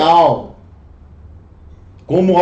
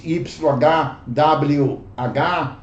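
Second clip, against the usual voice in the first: Y H W H spelled letter by letter slowly; slow spelling; 5 semitones lower, 6 dB quieter, much slower than usual. Shown as a demonstration. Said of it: "spells letters slowly". (soletrado devagar)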